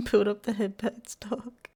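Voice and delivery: talking while chewing candy; words round a mouthful of candy; mouth full. Real, not acted. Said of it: "I got a buttermento in my mouth".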